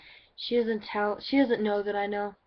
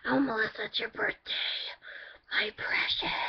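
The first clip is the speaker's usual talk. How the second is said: breathy hushed doting voice; mock doting relatives fussing over the birthday girl; doting family; 3 semitones higher than usual. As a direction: coo over her like a precious baby. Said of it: "the kind of people that are like".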